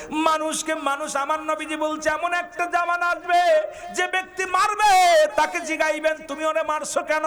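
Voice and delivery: high, sustained prophetic warning; impassioned preaching. Real, not acted. Preacher relaying the Prophet's warning of coming times, impassioned preaching.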